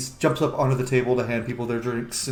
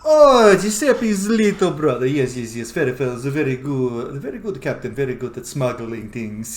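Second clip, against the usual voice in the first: cheery innkeeper. Acted. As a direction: boast about your brother. GM voices Giuseppe.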